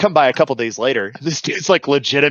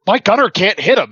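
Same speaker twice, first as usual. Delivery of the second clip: high-pitched mock alarm; urgent radio report; 7 semitones higher, 4 dB louder than usual. Truck commander reporting over the net, high and urgent. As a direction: imitate the commander getting frantic. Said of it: "He's like".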